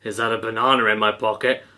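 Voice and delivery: low, lightly put-on goofy voice; silly clown. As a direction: play a dopey clown with a banana. Silly banana voice skit.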